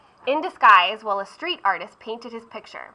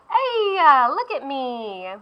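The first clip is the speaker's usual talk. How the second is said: put-on very high, squeaky little pastry boy; a newborn beignet boy showing off; gleeful beignet boy; 4 semitones higher, slower than usual. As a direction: pop up delighted as a tiny living pastry.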